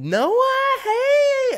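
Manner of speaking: high, loud squealing hey; mock overexcited. Imitating Noah's fake excited greeting, squealing. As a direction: ham up someone's over-the-top excitement. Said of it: "is this fucking excited".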